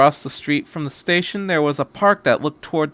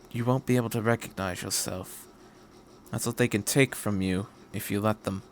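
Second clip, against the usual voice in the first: grave and sincere; 6 dB quieter than usual. Acted. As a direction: warn him gently, from far away. Doctor's grave warning to Shinji.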